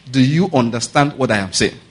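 measured, emphatic check on the listeners; deliberate repeat. Real, not acted. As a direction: spell out "what I am saying" in full, unhurried.

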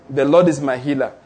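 lightly voiced faith declaration. Shown as a demonstration. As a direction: declare each line as a promise. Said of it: "I'm declaring".

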